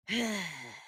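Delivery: short doubtful sigh. Real, not acted. Host hesitating over her verdict on a villain, sigh. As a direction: sigh while weighing it up. Hesitates before judging Leprechaun.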